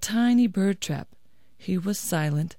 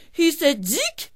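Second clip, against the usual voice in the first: rising to a tiny high squeak; owl imitating lizard; 9 semitones higher, slower than usual. A narrator's reading. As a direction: mimic the lizard's little chirp. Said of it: "said the owl".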